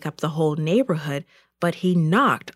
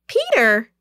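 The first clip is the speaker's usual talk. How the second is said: higher, louder cry of joy; joyful shout; 5 semitones higher, 5 dB louder than usual. A narrator's reading. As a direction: call it out with delighted surprise. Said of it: "she shouted joyfully".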